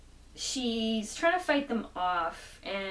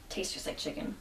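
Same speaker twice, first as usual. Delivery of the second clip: Joker; 4 semitones lower, 7 dB quieter than usual. Retold or imitated. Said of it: "and he says".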